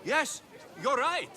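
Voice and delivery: pretend Cleon supporter. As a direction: play the naive crowd member defending Cleon. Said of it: "respond as if you're one of Cleon's supporters".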